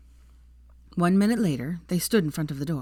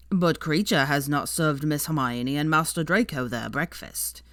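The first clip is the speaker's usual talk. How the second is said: lightly voiced devoted house elf, proud; a hint of an old servant speaking up for his master.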